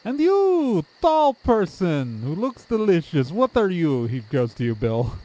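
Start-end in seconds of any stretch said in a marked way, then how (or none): 0.0-4.0 overeager odd townsperson. Acted. Townsperson hungrily greets next visitor.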